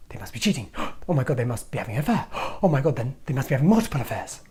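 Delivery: gasping, escalating jealous alarm; hammed-up jealous panic; 1 mock panic. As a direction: gasp and spiral into suspicion. Gasping paranoid partner.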